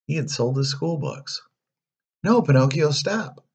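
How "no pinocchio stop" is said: high, urgent cry of warning; high-pitched cricket calling out. A narrator's reading. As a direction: call out to stop someone. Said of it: "called the cricket".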